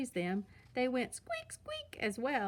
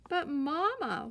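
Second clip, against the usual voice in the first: put-on high, slow, whiny little-girl plea; whining cub; 6 semitones higher, 4 dB louder, slower than usual. A narrator's reading. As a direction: drag it out like a whining child. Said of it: "whined Sister".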